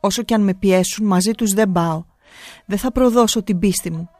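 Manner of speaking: firm, resolute and unwavering; steady voice. Acted. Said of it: "με φωνή σταθερή". (σταθερή, αποφασιστική φωνή)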